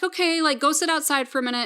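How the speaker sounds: lightly voiced busy mom. Mom answering sick child.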